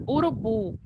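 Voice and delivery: "Urubu" with a strong last syllable; stress on bu. Shown as a demonstration. Teacher showing which syllable is strongest, stressed bu in "Urubu". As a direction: sound out "Urubu", leaning on the final bu. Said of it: "A sílaba mais forte é bu".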